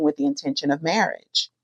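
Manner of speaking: hushed whisper of the big news; whispered confession to viewers. Real, not acted. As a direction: breathe it out like a secret. Whispered aside.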